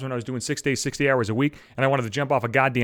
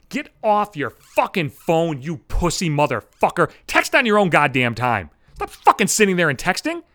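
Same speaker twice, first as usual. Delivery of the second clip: angry rant; 5 semitones higher than usual. Acted. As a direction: tell him off like he's in your way. Ranting at gym phone users.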